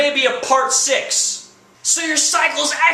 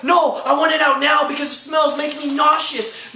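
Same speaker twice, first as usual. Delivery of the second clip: raised, cranky mock complaint; a girlfriend nagging her boyfriend, mock irritated; irritated insistence; 3 semitones higher than usual. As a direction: act fed up and nauseous.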